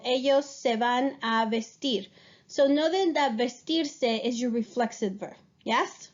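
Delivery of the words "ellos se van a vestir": slowed example. Shown as a demonstration. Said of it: "for example".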